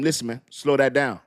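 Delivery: slow it down. Retold or imitated. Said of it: "You gonna tell them".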